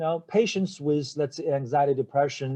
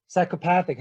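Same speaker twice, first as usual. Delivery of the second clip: psychopathic with the third syllable lifted; teacher stressing path in psychopathic; 4 semitones higher, faster than usual. Shown as a demonstration. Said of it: "So the stress is what? On the third".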